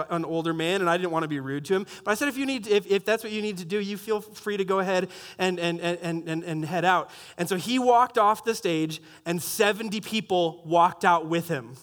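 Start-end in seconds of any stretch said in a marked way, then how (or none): 2.3-7.1 softened, careful firmness; courteous but firm dismissal, a little halting; stern but polite. Retold or imitated. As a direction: respectfully show him the way out. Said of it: "stern but polite".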